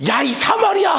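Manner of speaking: high, shouted mock curse; mock insult shout. Shown as a demonstration. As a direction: yell it like a playful insult. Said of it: "그리스도인의 욕은 사마리아로". (장난스럽게 높이 외치는 욕)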